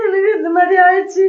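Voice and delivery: real tearful words; a mother weeping over her daughter; crying. Real, not acted. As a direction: speak through tears. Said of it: "நீங்க அழுவாதீங்கம்மா".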